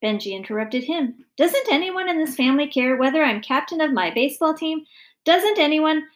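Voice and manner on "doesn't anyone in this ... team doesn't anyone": put-on loud, high-pitched child's complaint; indignant boy. A narrator's reading. Son complaining nobody cares about baseball, indignant. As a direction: demand attention over everyone, louder. Boy loudly interrupts the family.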